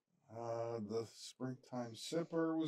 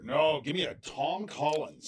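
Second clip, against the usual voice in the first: mock English accent; 4 dB louder, slower than usual. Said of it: "shitty English accent".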